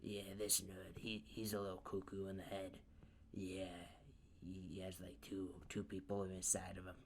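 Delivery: lightly voiced rough-talking rival; a hint of a scornful character voice; Bakugo. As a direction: explain it dismissively, in character. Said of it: "Bakugo explains it like this".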